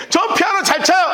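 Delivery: put-on child bragging he plays piano; eager child. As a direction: play the proud little boy. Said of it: "걔가 나한테 갑자기".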